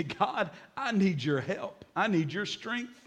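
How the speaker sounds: soft, earnest plea to God; repentant prayer. Acted. Preacher models what to say to God, soft repentant plea. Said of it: "bring to God and repent and say".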